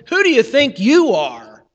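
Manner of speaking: Satan accusing. Acted. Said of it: "he says".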